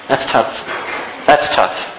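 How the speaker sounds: whispered, breathy remark; hushed aside. Real, not acted. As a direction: drop to a near whisper. Aside about wives submitting.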